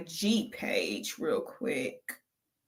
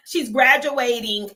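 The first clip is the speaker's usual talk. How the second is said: laughing mock quote; 3 semitones higher, slower than usual. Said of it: "she was like".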